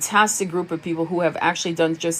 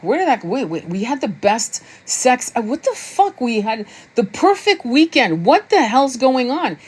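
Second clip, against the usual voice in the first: higher-pitched, acted-out bafflement; bewildered protest; 4 semitones higher than usual. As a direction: voice someone stunned and demanding answers. Voicing the bewildered abandoned twin.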